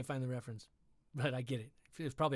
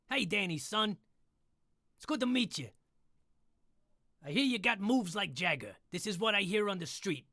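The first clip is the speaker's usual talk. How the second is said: higher wisecracking Rocket voice; 5 semitones higher than usual. Acted. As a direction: greet Danny's son as Rocket. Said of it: "like Rocket".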